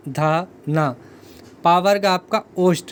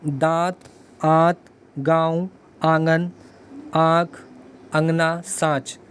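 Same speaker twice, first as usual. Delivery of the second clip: slow example words; slower than usual. Shown as a demonstration. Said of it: "जैसे अंगूठा".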